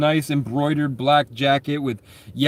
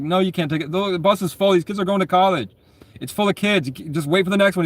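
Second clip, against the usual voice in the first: imitating bus driver; 5 semitones higher than usual. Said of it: "the bus driver's like".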